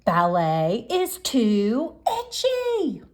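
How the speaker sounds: put-on whiny child. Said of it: "But I was very loud".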